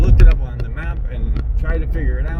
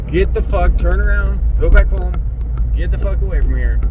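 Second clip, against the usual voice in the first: higher, urgent voice of her own panic; panicked inner voice; 5 semitones higher than usual. Retold or imitated. Her anxious inner voice telling her to go home, higher and urgent. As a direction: let the fear inside you yell at you to turn back. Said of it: "everything is screaming inside me right now".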